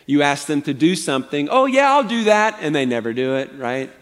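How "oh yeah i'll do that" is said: higher-pitched, breezy fake yes; passive-aggressive agreement. Preacher imitating someone asked to do something, falsely agreeable. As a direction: agree readily with no intention of doing it. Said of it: "passive-aggressive people that are sneaky".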